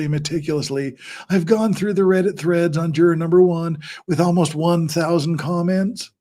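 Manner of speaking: lightly put-on ASMR voice; a hint of an imitated ASMR read; Megan's ASMR voice. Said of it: "do the Megan A S M R voice".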